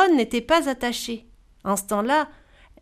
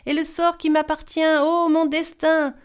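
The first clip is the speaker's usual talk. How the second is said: crying out; 5 semitones higher than usual. Acted. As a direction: call out to fate before the door. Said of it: "Elle criait".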